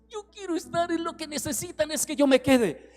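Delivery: high, gentle coaxing hint; Jesus hinting to the disciples, gently. Retold or imitated. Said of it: "insinuándoles".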